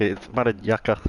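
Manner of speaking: light mock Indian accent, mother yucca said as mara jaka. Streamer jokes how Indians swear, mock Indian accent. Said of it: "How do Indians say motherfucker".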